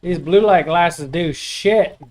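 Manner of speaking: excited. Real, not acted. Excited about typing improvement.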